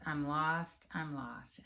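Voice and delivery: put-on a touch of a lost child fading to a murmur. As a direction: let "I'm lost" die away like a child giving up. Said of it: "she's crying".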